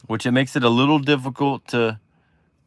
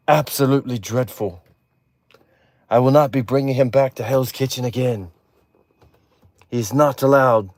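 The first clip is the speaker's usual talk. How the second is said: mock British judge's verdict; lightly hammed-up British critic; British accent. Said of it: "say something in that accent".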